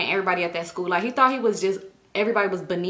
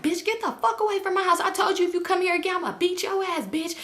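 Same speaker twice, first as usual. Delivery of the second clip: mock angry mother; 9 semitones higher than usual. Mother threatens the girlfriend.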